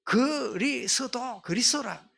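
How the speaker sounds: 그리스도 drawn out high, syllable by syllable, then said whole. Shown as a demonstration. Preacher reveals the four-letter password, 그리스도 stretched syllable by syllable. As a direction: spell out 그리스도 very slowly like a code. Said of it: "넉자된 비밀번호는 뭐예요".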